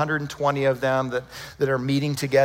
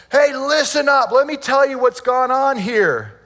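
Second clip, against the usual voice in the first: high, loud call to a crowd; imitated shout; 8 semitones higher, 5 dB louder than usual. Peter addressing the crowd in Jerusalem, shouting. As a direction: raise your voice as a preacher addressing thousands. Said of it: "He shouts".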